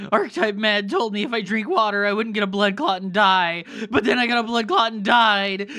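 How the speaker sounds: loud, high fake crying; mock wailing. Streamer pretending the water advice failed him, mock sobbing wail. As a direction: bawl it out in hammed-up despair.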